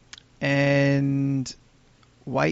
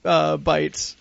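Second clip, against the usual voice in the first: chewing while talking; 2 semitones higher, 5 dB louder than usual. Real, not acted. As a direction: mouth full of bar. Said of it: "You talk while I eat this".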